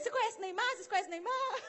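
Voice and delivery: high, excited squealed questions; hammed-up amazement, breaking into laughter; imitating thrilled fans. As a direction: act star-struck, voice shooting up. Imitating thrilled locals asking.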